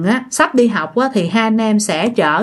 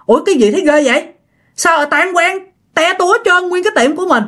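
higher-pitched, startled mother's reaction; mildly panicked, pitched-up disbelief; acted alarm; 7 semitones higher, faster than usual. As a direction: imitate a mother taken aback. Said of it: "mẹ cũng hoảng hốt luôn".

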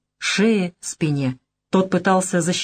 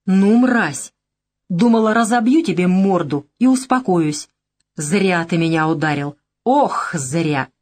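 malicious. Acted. The girl threatening the man who hit her, with malice. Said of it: "такая злоба".

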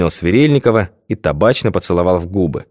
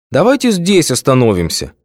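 whiny, higher pleading; capricious; 7 semitones higher than usual. A narrator's reading. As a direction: whine like a spoiled girl. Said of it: "закапризничала Светка".

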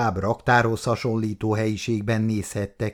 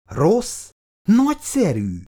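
higher, brighter burst of approval; quickly louder; 10 semitones higher, 4 dB louder, slower than usual. Acted. Hastily louder, raised voice. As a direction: Icu quickly adds it out loud, changing her tune. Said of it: "aztán gyorsan, hangosabban hozzátette".

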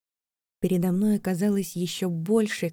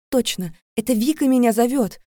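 sudden excitement; 5 semitones higher, 6 dB louder than usual. Acted. Recognising friend's voice.

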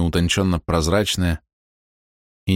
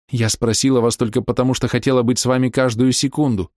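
a hint of a higher, aching middle-aged woman; lightly voiced Bella confessing; 5 semitones higher than usual. A narrator's reading. Bella confessing her love to the young man, aching. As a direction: pour out old hidden love, tenderly hurt.

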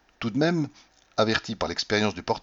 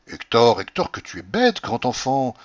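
fond scolding; 5 dB louder than usual. Acted. Wife scolding husband fondly.

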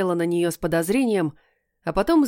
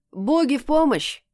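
smirking; 6 semitones higher than usual. A narrator's reading. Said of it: "усмехнулся кот".

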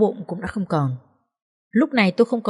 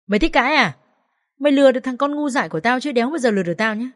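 fast, higher, sneering threat; contemptuous scolding; 5 semitones higher, faster than usual. Acted. Mother-in-law sneering at the accused wife, fast and contemptuous. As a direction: spit the insult out quickly.

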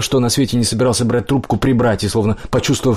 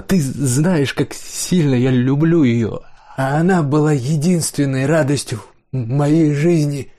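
higher-pitched, grieving plea; tearful; 5 semitones higher, slower than usual. A narrator's reading. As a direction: plead through welling tears, pitch raised. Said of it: "Слёзы застилали его глаза".

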